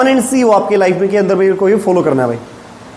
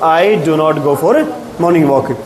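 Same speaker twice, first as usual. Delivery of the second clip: slow, lower, drawn-out sentence; slow modelling; 5 semitones lower, much slower than usual. Shown as a demonstration. Teacher modelling a negative answer for the class, slow and low. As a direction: lay out every word slowly for beginners.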